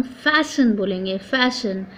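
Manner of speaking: fasten said with silent T, as "फैशन". Shown as a demonstration. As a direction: say "फैशन" with no T sound. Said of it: "उसको हम फैशन बोलेंगे".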